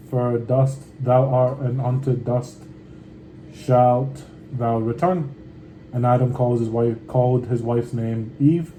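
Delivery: measured, unhurried Bible reading; scripture reading. Acted. Reading Genesis aloud to his viewers, steady scripture reading. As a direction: read the old words steadily and with care.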